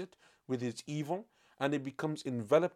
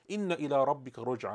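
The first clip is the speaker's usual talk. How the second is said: quick, fluent recited Arabic verse; rapid Quran recitation; much faster than usual. Acted. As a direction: recite it briskly from memory.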